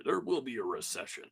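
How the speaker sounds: grave news anchor announcement; newscaster voice. Pretend. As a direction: deliver it like breaking news. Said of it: "I sound like a flippin' newscaster".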